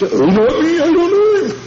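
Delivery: high, squeaky flustered denial; Peter's panicked denial. Retold or imitated. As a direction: brush it off in a rising, frightened voice. Peter denying the Lord, retold.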